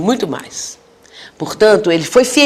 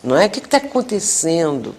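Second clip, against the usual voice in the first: softer, caring questions, fading; gentle questioning; 2 semitones lower, 5 dB quieter than usual. Shown as a demonstration. Counselor softly asking a crying spirit what happened, tender. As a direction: ask kindly, drawing the story out. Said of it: "mas também saber o porquê".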